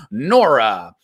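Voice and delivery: drawn-out name, called high and loud; announcer call-out. Acted. Host hyping the crowd for the next poet, long announcer call. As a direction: stretch the name out like a ring announcer.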